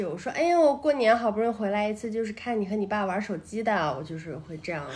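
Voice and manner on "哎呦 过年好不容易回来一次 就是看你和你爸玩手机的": lightly voiced mom, sarcastic guilt trip; a hint of a nagging mother; nagging mom lecture. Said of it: "模仿我妈的那种语气". (阴阳怪气的妈妈唠叨)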